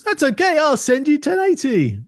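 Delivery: high, slow reassuring machine; computer voice. Pretend. Computer reassures the monitor, high slow voice. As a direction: soothe the little monitor like a computer.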